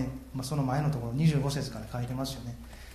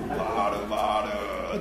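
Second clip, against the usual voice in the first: mock calling; 6 semitones lower, much slower than usual. Prophets calling out to Baal, low imitated call. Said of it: "呼びかけてですね".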